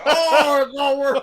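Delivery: squeaky orc voice through laughter; laughing. Acted. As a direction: giggle it out as an orc. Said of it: "And then".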